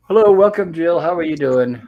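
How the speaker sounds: host hails a co-host who just arrived; excited welcome. Real, not acted. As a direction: greet Jill as she joins the stream.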